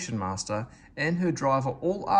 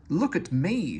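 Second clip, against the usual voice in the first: purring; 5 semitones higher, 4 dB louder, slower than usual. Acted. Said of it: "she purred".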